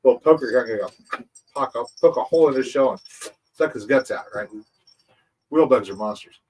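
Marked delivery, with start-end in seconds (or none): 0.0-4.3 lightly voiced gloating little monster; mock sinister bug chuckling over its prey; villain bug gloating.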